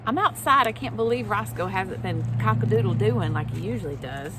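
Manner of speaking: loud, quick barnyard rooster voice; rooster puppet voice. Pretend. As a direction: bustle in as a chatty rooster.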